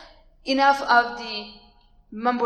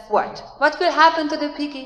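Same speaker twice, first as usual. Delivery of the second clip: put-on curious child; 5 semitones higher, 5 dB louder than usual. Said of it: "somebody usually says".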